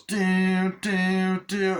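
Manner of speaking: sing-song it like a creepy toy doll. Retold or imitated. Reviewer mimics a doll in the movie, high doll chant. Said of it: "the doll goes".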